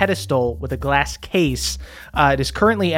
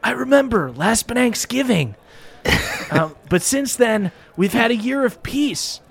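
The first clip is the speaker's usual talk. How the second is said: lightly raised ape king voice, solemn; a hint of a ceremonial ape king speech; Donkey Kong voice; 6 semitones higher than usual. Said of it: "Donkey Kong nods and he goes".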